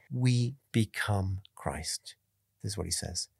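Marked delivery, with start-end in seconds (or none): 0.1-2.2 "We become Christ" drawn out slowly, falling at the end; dramatic quote. Retold or imitated. Preacher quoting Augustine to the congregation, slow and dramatic. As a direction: deliver Augustine's words slowly and weightily. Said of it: "he says more dramatically".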